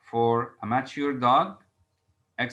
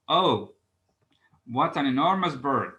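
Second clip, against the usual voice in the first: strong exclamation. Shown as a demonstration. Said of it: "the emotion is stronger".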